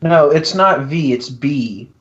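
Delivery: muffled nose, tissue stuffed in; talking through a plugged nostril; tissue up one nostril. Real, not acted. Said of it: "'cause I have a tissue in my nose".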